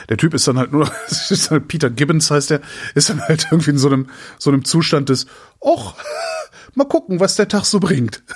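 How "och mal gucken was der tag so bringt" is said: laughing dreamy imitation. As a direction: play the dazed guy through laughter. Mimics dazed hypnotized character. (lachend verträumt nachgemacht)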